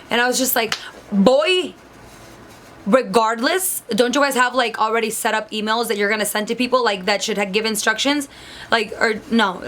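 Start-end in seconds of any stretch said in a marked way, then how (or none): 1.1-8.3 mildly exasperated, stretched-out opening; mock an annoyed comeback; retold annoyance. Applicant fed up with interviewer over resume, retold annoyance. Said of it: "I was just so annoyed".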